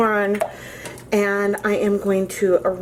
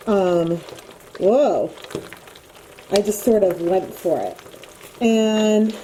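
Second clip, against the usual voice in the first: muffled through a respirator; talking through a respirator mask, muffled. Real, not acted. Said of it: "so excuse the muffled voice".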